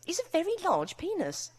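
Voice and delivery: friendly voice. Acted. Narrator speaking to Al, mock friendly high voice. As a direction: keep it friendly and chirpy while panicking. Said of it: "I say in a friendly voice".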